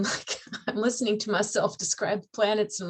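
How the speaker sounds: laughing through the words, amused at herself. Real, not acted. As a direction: let the laugh leak into the line. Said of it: "I'm laughing".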